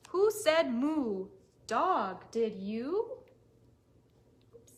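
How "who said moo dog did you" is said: curious question. Acted. Storyteller questions animals.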